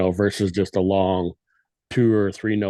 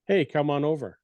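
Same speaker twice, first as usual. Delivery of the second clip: nonchalant; 4 semitones higher than usual. Shown as a demonstration. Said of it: "one's nonchalant".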